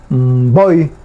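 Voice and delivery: "Voy" opened with a hummed m, weight on the O; stress on O. Shown as a demonstration. Teacher shows the Guaraní word for snake, "Voy" stressed on the O. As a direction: lean on the O in "Voy", after an mb onset. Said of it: "Acento en la O".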